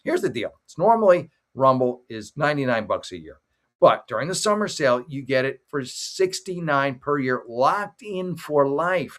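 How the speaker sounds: upbeat pitchman read of a sales offer; sponsor ad read. Acted. Host pitching Rumble Premium to his viewers, upbeat ad read. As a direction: sell the summer sale to viewers like a commercial.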